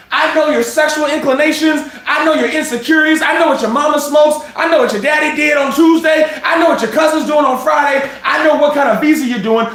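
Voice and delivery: building to a shout, laughing; rising shout. Acted. Fed lists everything he knows.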